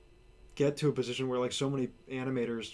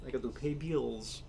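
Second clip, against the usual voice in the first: voice crack. Real, not acted. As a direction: voice cracking mid-line. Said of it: "Voice crack".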